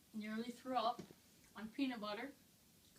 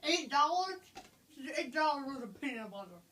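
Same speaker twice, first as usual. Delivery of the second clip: can't believe the price; shocked; 3 semitones higher, 8 dB louder than usual. Real, not acted.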